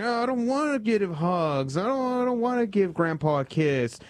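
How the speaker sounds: put-on high, whiny little-kid voice; whiny child. Priest voicing a squirming grandchild, high and whiny. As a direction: whine like a child refusing a hug.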